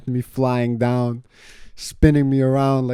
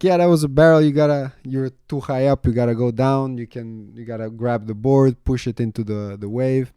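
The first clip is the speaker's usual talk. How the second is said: excited coach; 3 semitones higher, 4 dB louder than usual. Retold or imitated.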